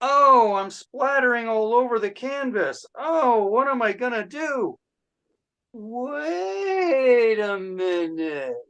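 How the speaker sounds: a painter losing control of his brush; young Jackson Pollock. Acted. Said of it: "my impression of Jackson Pollock having ... early formative years".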